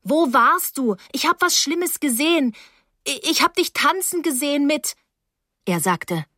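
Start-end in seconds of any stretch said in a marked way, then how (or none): 0.0-5.0 high, agitated cry; calling out loudly. A narrator's reading. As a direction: blurt it out in a raised, urgent voice. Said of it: "Ich rief laut".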